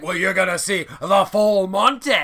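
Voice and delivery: loud, put-on Scottish accent. Gaz pitching his show to the ladies, mock Scottish accent. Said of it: "made him Scottish there".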